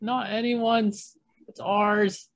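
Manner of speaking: high, slow character voice; put-on character voice. Co-host rallying Pegasus Nation, high character voice. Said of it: "That's a really good fucking voice".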